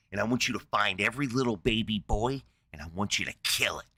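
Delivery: low, menacing mock rage; furious Moses. Moses grabbing his general, low hinted fury. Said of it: "fucking furious".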